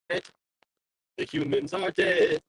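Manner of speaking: very slow, drawn-out robot singing. Pretend. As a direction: sing it like a cold machine. Slowed robotic sung take.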